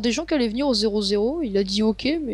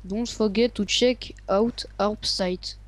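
slow English read with a French accent; much slower than usual. Real, not acted. Gamer reading his channel plug in French-accented English. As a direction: sound out the English line slowly in a French accent. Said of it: "Excusez-moi pour mon accent anglais".

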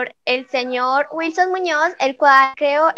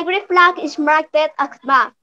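fake French; 2 semitones higher than usual. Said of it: "en un francés inventado".

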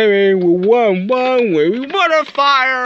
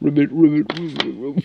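frog ribbit; 6 semitones lower, 3 dB quieter, much faster than usual. Retold or imitated. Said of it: "That says ribbit".

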